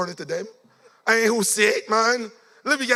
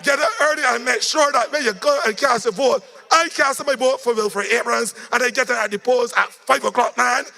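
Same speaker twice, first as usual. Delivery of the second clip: rousing rally shout; 5 semitones higher than usual. Real, not acted. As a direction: fire up the crowd to get up early. Rally speaker urging voters.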